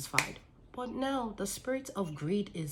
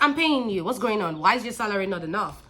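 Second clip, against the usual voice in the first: exasperated outburst; 3 semitones higher, 5 dB louder than usual. Retold or imitated. Exasperated quote to employee.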